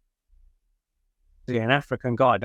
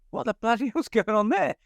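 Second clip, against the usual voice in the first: laughing in disbelief; 8 semitones higher than usual. Retold or imitated. Retelling his shocked reaction.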